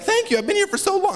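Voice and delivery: high, breathless princess voice; a tied-up princess thanking her rescuer, way up high; damsel in distress. Retold or imitated. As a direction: play it like a rescued fairy-tale princess. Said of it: "and she's like".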